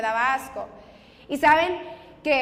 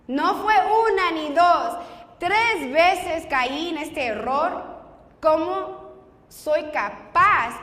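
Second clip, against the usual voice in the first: louder, slow, beating herself up over each word; a raised, drawn-out scolding of her own mistake; angry self-reproach; 2 semitones higher, 4 dB louder, much slower than usual. Retold or imitated. Scolding herself, louder and slower, after getting pregnant again. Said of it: "Y esta vez dije".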